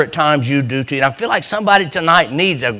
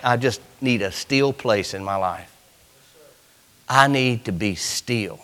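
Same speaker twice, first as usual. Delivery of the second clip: soft, quiet; 6 semitones lower, 8 dB quieter than usual. Shown as a demonstration. Preacher voicing a quiet longing for stillness. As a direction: say it like a quiet prayer. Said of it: "I'd like to use it like".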